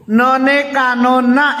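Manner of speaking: put-on slow, childish spelling-out of "न ने कानो ना"; imitating a child. Teacher mimicking how kids spell it, slow childish drawl. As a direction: drag "न ने कानो ना" out slowly, letter by letter like a kid. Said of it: "इस तरह बोलते हैं".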